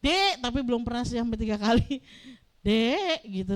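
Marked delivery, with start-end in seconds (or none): 0.0-0.4 Dek called higher and sharper as final warning; a last warning call of the name Dek; third call, sharper. Shown as a demonstration. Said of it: "Nadanya udah beda panggilan". 2.7-3.2 Dek clipped as last warning; final sharp call. Shown as a demonstration. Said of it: "Nadanya udah beda".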